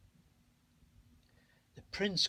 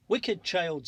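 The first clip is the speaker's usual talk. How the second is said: loud, high witch scream; angry scream; 4 semitones higher, 6 dB louder than usual. A narrator's reading. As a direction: shriek it at the child. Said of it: "screamed the witch".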